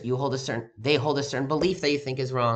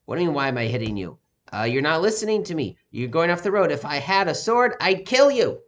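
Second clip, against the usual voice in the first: an angry retort that builds to a higher, louder shout; angry Bilam; 4 semitones higher, 6 dB louder than usual. Retold or imitated. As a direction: build from an irritated retort to a furious threat. Bilam yells at his donkey.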